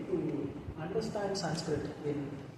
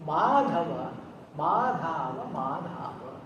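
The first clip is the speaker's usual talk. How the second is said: tender calling; 3 semitones lower, slower than usual. Shown as a demonstration. A mother calling her child, tender and fading. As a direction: call the child's name tenderly, letting it die away. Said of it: "the tender feeling of a mother".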